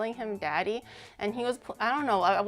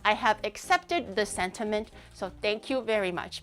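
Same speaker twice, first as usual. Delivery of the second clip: slow, lower, grand and pious; mock-solemn vow; 4 semitones lower than usual. Streamer refusing a viewer's marriage proposal, slow mock-solemn vow. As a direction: play a prim nun refusing a suitor.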